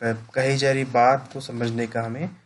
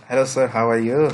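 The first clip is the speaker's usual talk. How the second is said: louder, punchy hello to the caller; an energetic, forceful hello; brisk loud greeting; 6 dB louder than usual. Shown as a demonstration. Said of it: "different type की tone होगी".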